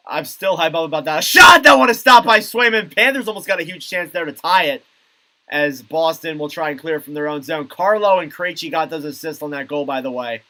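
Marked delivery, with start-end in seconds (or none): 1.2-9.9 live play-by-play. Real, not acted. Commentator on a Panthers chance to tie, live play-by-play. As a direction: burst on the shot, then settle.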